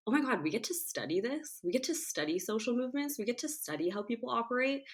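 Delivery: excited gush. Retold or imitated. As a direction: gush like a student who just found her subject. Excited student discovering sociology.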